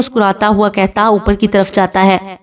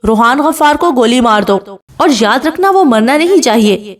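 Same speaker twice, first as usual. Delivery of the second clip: higher, mock roared order; husband roars his order at the servant; angry roar; 5 semitones higher than usual. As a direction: push the threat out with mild fury. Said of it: "غصے سے دھاڑ کر کہتا ہے".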